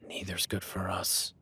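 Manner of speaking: hushed and wary; tense whisper. Acted. Hunter whispering to his partner about the unseen beast. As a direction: whisper so the thing won't hear.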